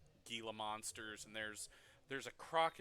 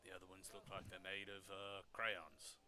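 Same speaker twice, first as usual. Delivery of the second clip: nervous stammering vendor; stuttering; 4 semitones lower, 6 dB quieter than usual. Acted. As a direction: stumble over the words nervously. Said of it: "he just kinda stutters".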